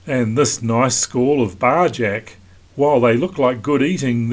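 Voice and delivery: even, measured documentary read; calm voiceover read to the viewers; vlog voiceover. Acted. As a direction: narrate the passage like a sailing film.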